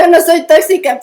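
laughing protest; laughing denial. Real, not acted. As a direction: deny it while laughing. Laughing denial of being toxic.

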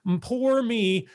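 very slow, stretched mock self-pity; lightly hammed-up poor-me moan; mock whining. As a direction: drag it out like a pitiful complainer, half-mocking. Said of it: "If you sit there and go".

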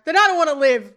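high, very loud melodramatic outburst; hammed-up cry of despair; mock despairing scream. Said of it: "Jack screams".

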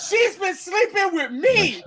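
high, slow, hammed-up shout; mock shouted reveal. Storyteller plays the valet revealing the affair, mock shouted reveal. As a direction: stretch it out as a scandalous announcement.

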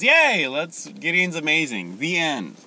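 high, chirpy wrap-up; mock cheer. Preacher imitating people who stop at victory, mock cheer. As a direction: imitate everyone happily ending the story too soon. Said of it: "Everyone says".

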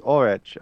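"Ulrich" ending in a CH as in rich; unsure pronunciation. Shown as a demonstration. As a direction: say "Ulrich" as OR-itch. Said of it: "Tomato, tomato".

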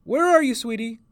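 high searching call, softening at the end; loud, high, then gentler. A narrator's reading. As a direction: call to a lost child with concern. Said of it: "she called".

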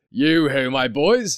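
put-on hearty call to the boys; rich, jovial master's voice. A narrator's reading. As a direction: hail the lads in a jovial voice. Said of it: "comfortable, oily, rich, fat, jovial voice".

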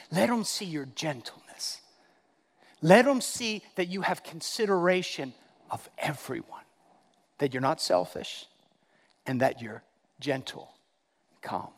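hushed, calming delivery; gentle and calm. Real, not acted.

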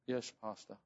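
a soft, meek yes; humbled. Retold or imitated. The young pastor meekly answers the rebuking pastor. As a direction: answer like a chastened man.

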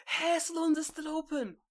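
high, stunned repeat; disbelieving high echo. Real, not acted. Echoes friend in disbelief.

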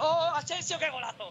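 high, long goal yell; goal scream. Real, not acted. Goal call in live commentary.

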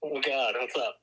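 speakerphone audio; thin voice through a phone line; over the phone. Real, not acted. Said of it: "you're on speakerphone".

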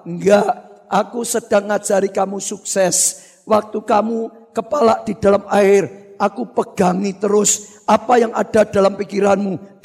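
low-pitched, measured mentor; calm reply. Acted. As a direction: explain steadily to an upset student. Mentor calmly answers the angry boy.

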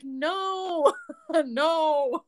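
laughing no through giggles; laughing refusal. Retold or imitated. Fans asking for her Instagram, laughing refusal. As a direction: turn them down while laughing. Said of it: "I was like".

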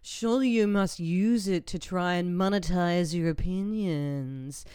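slow, lightly hammed-up admiring fan; mock fan gush. Fan praising host's voice, lightly mocking gush. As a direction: gush over her voice, half-mocking. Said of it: "People just like".

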